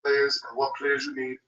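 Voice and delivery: distant, off-mic voice; sounding far from the phone; phone held away. Real, not acted. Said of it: "it sounds like you're far away from the phone".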